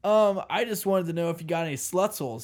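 lightly voiced bro tourist; sleazy tourist asking a shopkeeper; Carl the wannabe bro. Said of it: "His name is Carl".

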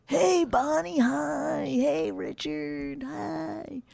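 high, bouncy, eager hello; overly happy greeting. Retold or imitated. Wife imitates the cheerful emcee, high and bubbly. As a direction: greet everyone like a giddy host. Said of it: "he was like".

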